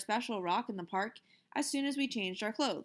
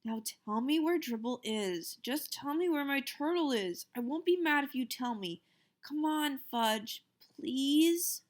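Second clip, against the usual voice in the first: speaking softly; 5 semitones higher than usual. Acted. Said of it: "I tried to speak softly".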